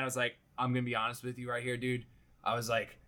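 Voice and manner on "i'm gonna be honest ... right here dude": fed up. Retold or imitated. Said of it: "I'm getting so fed up".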